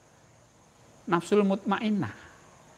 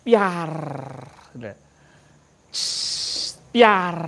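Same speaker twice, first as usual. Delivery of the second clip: firework burst sound; 4 dB louder, slower than usual. Shown as a demonstration. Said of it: "Kembang api lah".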